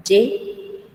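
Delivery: "Y" pronounced ye, as a Spanish consonant; Guaraní J sound. Shown as a demonstration. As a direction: demonstrate "Y" as a single syllable ye. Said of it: "la J se pronuncia como". ("Y" pronunciada ye, como en español)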